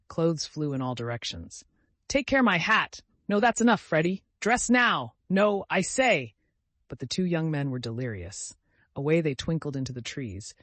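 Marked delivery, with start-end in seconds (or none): 2.1-6.3 high, loud protests; anxious calling out. A narrator's reading. Vicar calling after the delirious young men, high and loud. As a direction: try to stop the boys, rising alarm. Vicar pleading with rowdy boys.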